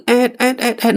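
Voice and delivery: repeated creaking "aet" sounds; imitated wood creak. Something steps on the wooden stairs, imitated creaking. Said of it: "គាត់ឮសំឡេងអ្វីម្យ៉ាងទេ ចេញពីអាប្រទះឈើ".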